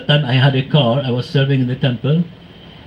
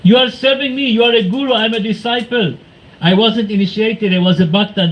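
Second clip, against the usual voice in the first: retold shouting; 6 semitones higher than usual. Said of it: "Then I start shouting".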